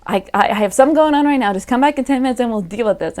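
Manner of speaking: quick mock brush-off to a friend. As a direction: hurry her away, mildly flustered. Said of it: "I would have been like".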